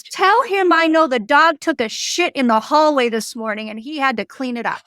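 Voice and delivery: channel the spirit's annoyance, only lightly; mock angry ghost. Medium retelling a pissed-off ghost's demand, mild mock anger. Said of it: "she gets pissed and she says".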